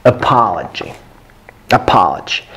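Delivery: "Apology" with schwa start and open stressed "ah"; careful model of "Apology" with reduced first vowel; non-Russian pronunciation. Shown as a demonstration. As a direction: say "Apology" as uh-PAH-luh-jee, falling at the end. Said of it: "go away from Russian and say".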